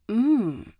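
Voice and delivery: humming through a mouthful of pastry; mouth full. Acted. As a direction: mmm around a big bite. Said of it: "Bianca mumbles, her mouth full".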